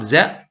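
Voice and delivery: "the" with a voiced, hard th. Shown as a demonstration. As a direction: model "the" as an isolated hard th sound. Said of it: "pronounce it hard".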